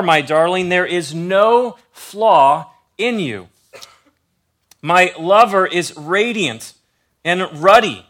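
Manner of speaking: slow, tender reading of a love poem; scripture reading. Acted. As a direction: read it like a love poem, unhurried. Reads Song of Solomon aloud.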